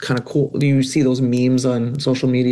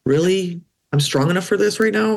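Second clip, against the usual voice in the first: incredulous; 6 semitones higher than usual. Retold or imitated. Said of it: "I'm like".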